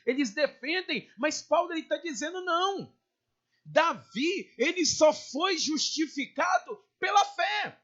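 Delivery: high, impassioned preacher's proclamation; fervent pulpit declaration; forceful preaching. Real, not acted.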